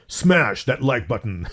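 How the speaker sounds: a touch of a fighting game announcer. Shown as a demonstration. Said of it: "let me do it in the announcer voice".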